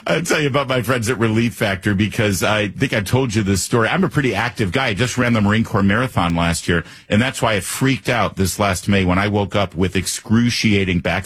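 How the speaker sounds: steady, earnest sponsor pitch; host-read radio commercial; testimonial ad read. Real, not acted. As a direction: sell it as a personal recovery story.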